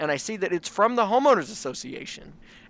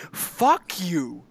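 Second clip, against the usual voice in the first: mock angry; 4 semitones higher, much slower than usual. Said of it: "and I'd say".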